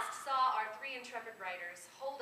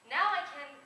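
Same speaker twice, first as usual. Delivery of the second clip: eager exclaim; 4 semitones higher, 10 dB louder than usual. Acted. Araminta's voiced quote cut off.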